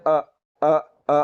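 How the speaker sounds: अ from the lowest part of the throat; a clean glottal अ; hamza from low throat. Shown as a demonstration. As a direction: hamza sound demo. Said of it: "हलक के नीचे वाले हिस्से से निकालना है".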